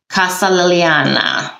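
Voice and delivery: slight Italian lilt on Casa Liliana; lightly Italian-accented place name. Real, not acted. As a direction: give the name a touch of Italian. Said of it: "said that with an Italian accent".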